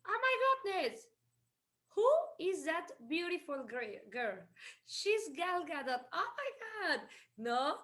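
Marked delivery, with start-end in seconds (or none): 0.1-1.1 mock gushing. Gushing over Brad Pitt. 6.1-7.0 mock gush. Gushing over Gal Gadot.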